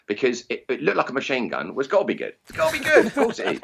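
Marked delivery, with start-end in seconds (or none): 1.7-3.6 mock excitement. Mocking his own past excitement.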